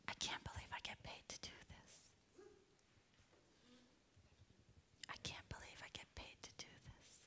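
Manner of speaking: soft voiceless whisper, fading away. Shown as a demonstration. Speaker demonstrating the whispered phrase to the audience. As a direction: hush it like a delighted secret. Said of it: "very quietly whisper".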